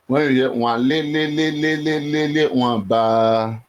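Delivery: playful slowed-down voice filter; put-on voice. Shown as a demonstration. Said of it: "Let me come back to my normal voice".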